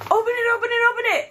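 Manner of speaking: high eager chant; excited. Acted. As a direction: urge it on like a kid. Excited urging to open gift.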